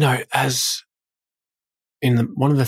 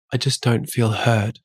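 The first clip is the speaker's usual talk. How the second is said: funny voice; slower than usual. Retold or imitated. Husband mimics wife's complaint in a mildly funny voice. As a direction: lightly parody her saying she feels unheard. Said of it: "Why did you do it in that funny voice?".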